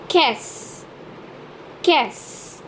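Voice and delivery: qu'est-ce run together as one "kess"; pronounced altogether. Shown as a demonstration. Teacher modelling for learners, qu'est-ce pronounced altogether as "kess". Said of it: "is pronounced altogether as in".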